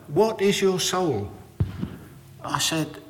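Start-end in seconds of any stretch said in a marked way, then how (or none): 0.1-1.3 echoing Jean. Retold or imitated. Repeating her question.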